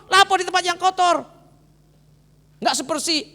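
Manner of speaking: high, loud ranting general; furious Naaman. Acted. Naaman raging at being told to bathe in the Jordan. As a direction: rant proudly about better rivers. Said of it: "dia marah".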